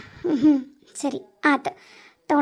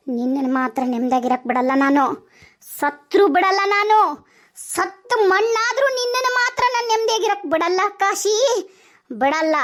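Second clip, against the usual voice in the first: 1 vengeful vow; 3 semitones higher than usual. Acted. Vowing revenge on Kashi.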